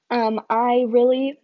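breathless, gasping between words; talking with no air left; out of breath. Real, not acted. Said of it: "I'm so out of breath".

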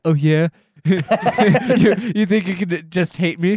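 lightly acted spiteful retort; mock defiant retort. Podcaster imagines Trump answering a hostile tweet, mock defiant.

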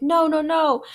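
mildly panicked protest, imitated; retold refusal. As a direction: act out refusing to come out.

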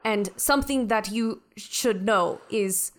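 measured, self-assured ship's mind; a hint of haughty superiority; lightly voiced imperious Beth. Beth schooling the crew on the bridge, lightly haughty.

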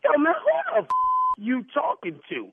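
high-pitched, indignant flare-up; real anger, voice jumping high; angry outburst. Real, not acted. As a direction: blow up at the caller. Heated argument with the caller.

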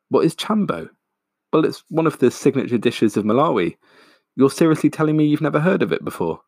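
high, amazed repeat of "chambo"; hammed-up astonished host repeating "What is chambo?"; incredulous. A narrator's reading. Stephen incredulous at Jamie.

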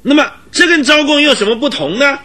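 worked-up indignant argument, often pitched high. Acted. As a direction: argue your case with rising indignation. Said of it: "因而愤慨的面红耳赤的赖士德队长". (愤慨地据理力争)

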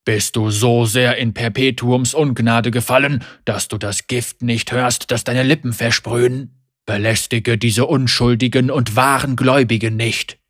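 calm, measured. Acted. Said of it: "seine Stimme ruhig und bedächtig".

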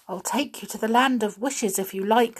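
humbly, a light small brownie voice; humble brownie. Acted. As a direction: offer it meekly, lightly voiced. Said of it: "said the small brownie humbly".

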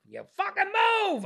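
high, loud angry yell; retold yell. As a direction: bark it at the old man. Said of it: "Now I'm yelling from my bed".

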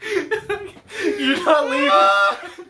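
slow, laughing, shouted demand; cracking up while pretending to confront; laughing mock demand. Laughing at his friend, shouting a mock demand.

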